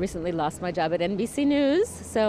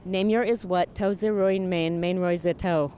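talking backwards. Shown as a demonstration. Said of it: "I talk backwards".

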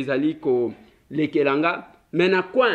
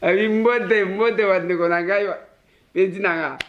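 lightly mimicked greeting, pitched up; mimicking a young greeter; 3 semitones higher than usual. Host echoing the child's video greeting, playful mimicry. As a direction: playfully echo the youngster's hello, a little higher.

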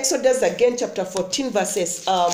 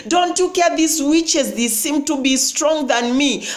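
desperate plea; 4 semitones higher than usual. Retold or imitated. Preacher voicing a suffering believer who asks God, pleading and rising. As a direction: voice of a believer crying out, rising in pitch with each don't you care.

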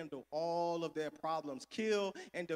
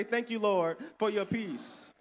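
call and response; 3 dB louder than usual. Shown as a demonstration. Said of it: "Somebody say".

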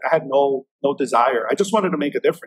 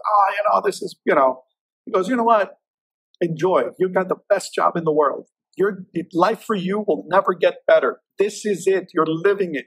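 raised, lively retelling of the boss; boss's advice; 4 semitones higher than usual. Retold or imitated. Boss telling young agent to enjoy the job, voiced higher. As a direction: voice the old boss cheering him on, higher.

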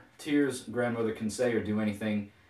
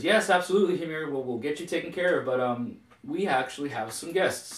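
higher, quick and eager to please; eager placating wife; 6 semitones higher than usual. Acted. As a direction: soothe a grumpy husband, brightly. Wife nervously placates angry husband.

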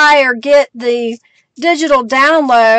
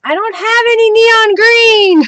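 excited exclaim; 7 semitones higher, slower than usual. Real, not acted. Excited reaction to chat color.

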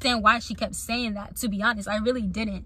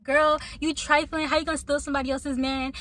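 mock cussing out; 3 semitones higher than usual. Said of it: "cussing me out".

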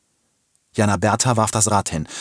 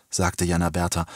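plain reading voice

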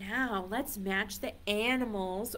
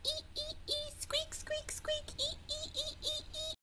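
very high, soft dolphin squeaks; dolphin squeal; 9 dB quieter than usual. Shown as a demonstration. Teacher showing children what dolphins say, high squealing. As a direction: squeak in quick, high little bursts.

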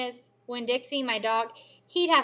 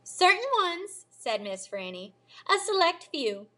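put-on sly old librarian; 7 semitones higher than usual. A narrator's reading. Librarian teasing Amanda.

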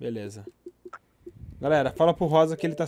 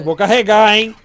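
repeated much louder to be heard; 9 dB louder than usual. Real, not acted. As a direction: say it again, loud and insistent.

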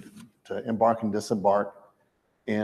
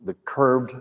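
talking while freezing cold; shaky voice from the cold; shivering; 4 semitones higher, 3 dB louder than usual. Real, not acted. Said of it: "Sorry, I'm freezing".

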